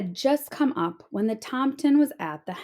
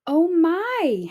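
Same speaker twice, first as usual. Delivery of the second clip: clucking hen; 7 semitones higher, 3 dB louder than usual. A narrator's reading. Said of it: "Henny clucked".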